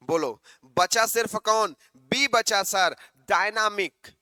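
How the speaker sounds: ordinary talk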